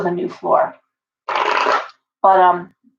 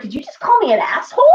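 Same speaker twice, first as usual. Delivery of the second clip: retold offended question breaking into a laugh; laughing disbelief; 6 semitones higher, faster than usual. Retelling being insulted by her bird, laughing disbelief. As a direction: ask it half laughing in mock shock. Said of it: "And you're like".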